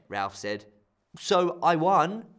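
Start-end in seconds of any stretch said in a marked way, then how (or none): 1.2-2.3 crowing. Acted. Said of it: "Ella crowed".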